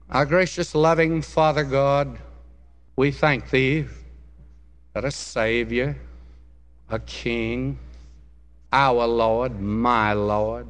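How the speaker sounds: solemn, phrase-by-phrase address to God; public prayer. Real, not acted. Preacher praying to loving Father God, solemn public prayer. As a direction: lead the congregation in earnest prayer.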